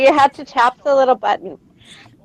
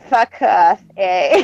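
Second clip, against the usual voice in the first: mock Canadian; 5 semitones lower, slower than usual. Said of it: "talk Canadian".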